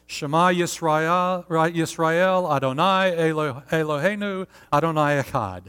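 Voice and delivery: broken Hebrew in a Southern accent. Shown as a demonstration. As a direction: recite halting Hebrew with a Southern American accent. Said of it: "with the southern accent and the broken, the broken Hebrew".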